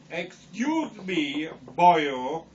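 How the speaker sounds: a light, slow Welsh lilt; mild Welsh accent, boyo. Acted. Red Riding Hood questions the wolf in a mild Welsh accent.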